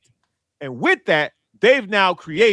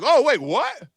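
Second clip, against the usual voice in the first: higher, mock surprised disbelief; mock shock about the taxes; acting surprised; 5 semitones higher than usual. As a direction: play the city caught off guard, hamming it up. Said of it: "now they acting surprised".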